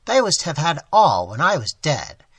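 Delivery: anguished lament. Acted. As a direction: pour out hurt and betrayal.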